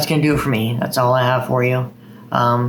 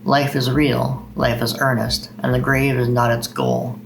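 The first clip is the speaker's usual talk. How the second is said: slow, measured poetry reading; unhurried recital voice with steady cadence; poem recitation. Acted. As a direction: read it like a poem to an audience. Reads Longfellow aloud.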